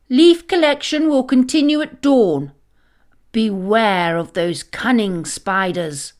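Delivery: loud stern orders easing at the end; stern announcement. Acted. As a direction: announce firmly, then warn. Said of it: "her voice stern".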